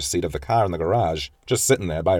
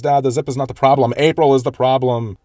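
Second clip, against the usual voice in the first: higher, louder exasperated outburst; flustered; 6 semitones higher, 5 dB louder than usual. Retold or imitated. Daughter snapping at her father over the dress zip, flustered. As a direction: let the frustration burst out at Dad. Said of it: "she gets all angsty and flustered".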